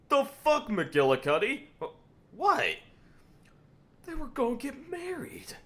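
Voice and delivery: high, squeaky mock outrage; outraged Cecil. Cecil yelling at McGillicuddy over the wedding, high mock outrage. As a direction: shriek at the partner in disbelief. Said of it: "Cecil's just like".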